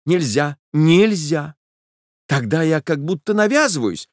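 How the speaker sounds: high, pleading refusal; insist, almost crying out; Nastenka's high protest; insistent young woman. A narrator's reading.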